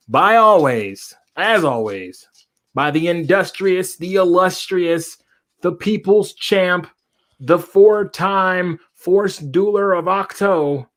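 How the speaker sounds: slow, high hype announcer build-up; ring announcer. Acted. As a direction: announce him like a boxing champ. Hype introduction of co-host.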